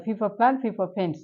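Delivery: even, repetitive list with the same lilt each time; pronunciation practice drill. Shown as a demonstration. Teacher showing students how to practise P sounds, chanted drill. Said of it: "এইভাবে আমরা এটাকে".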